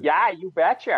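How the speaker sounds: a light hint of a Midwestern accent on "you betcha"; Sarah Palin accent. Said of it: "Sarah Palin had that".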